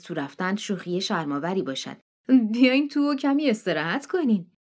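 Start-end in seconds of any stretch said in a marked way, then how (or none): 2.5-4.5 high, eager hostess voice pressing them in; a pushy country hostess insisting they come in; June's insistent welcome. Acted. Hostess June pressing the guests to come inside, high and eager.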